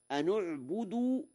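أنعبد with damma on the noon in connection; recited example. Shown as a demonstration. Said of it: "بضم النون وصلا". (أنعبد بضم النون وصلا)

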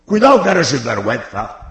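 a fond, teasing "sinvergüenza"; affectionate scolding. Shown as a demonstration. Preacher showing how "sinvergüenza" can be said fondly, affectionate teasing. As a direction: call him a rascal with affection, not anger. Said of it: "Y lo dices con cariño".

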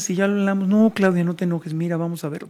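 falsely placating, with a mild superior air; mock-soothing, lightly patronizing; condescending sweet talk. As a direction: talk nicely down to someone upset. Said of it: "pero te hablan bonito".

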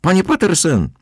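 high loud call. A narrator's reading. Narrator calling to the captain over the crowd, high and loud. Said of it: "teraz ja wołałem do kapitana".

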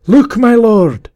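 long, high, loud call; alarmed cry. A narrator's reading. Gaunt man calling to his lord, drawn-out cry. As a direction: stretch the warning out in a high yell. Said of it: "cried the voice of the gaunt man".

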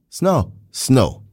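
Snow said alone, twice, each with a falling tune; correct pronunciation. Shown as a demonstration. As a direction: repeat Snow as a separate word, like the weather word. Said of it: "the correct pronunciation is".

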